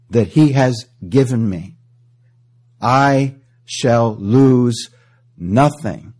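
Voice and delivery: loud, ringing proclamation; preaching force. Acted. Preacher proclaiming Christ's promise to the church, loud and slow. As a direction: declare it to the whole church, very slow on I shall lose.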